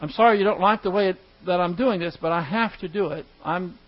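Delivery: acted calm. Husband explaining spending limits to his wife, calm. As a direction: hold firm without raising the voice. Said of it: "stays calm and says".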